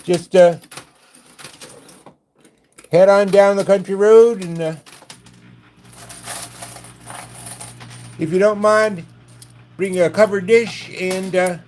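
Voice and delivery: put-on country Southern accent, pitched a little high; folksy Southern accent. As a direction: play an unsophisticated down-home Southern host. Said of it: "don't have to sound sophisticated".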